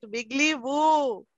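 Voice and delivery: Wiggly Woo drawn out slowly; Wiggly Woo said slowly, each word stressed; slow, stressed name. Shown as a demonstration.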